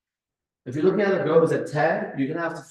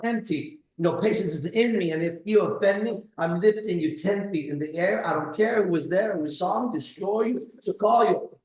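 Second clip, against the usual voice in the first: Andrew Tate's thoughts; 4 semitones higher than usual. Retold or imitated. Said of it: "This is what he was thinking".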